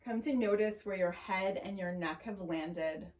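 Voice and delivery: calm, unhurried yoga teacher voice; measured, soothing guidance with long pauses; guided meditation. Acted. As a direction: ease them gently into noticing the breath. Leads a grounding meditation.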